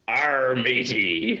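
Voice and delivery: drawn-out pirate growl passed off as Irish; slow, badly faked Irish, all pirate; bad Irish accent. Guest gives best Irish accent, comes out pirate. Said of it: "let's hear your best Irish accent".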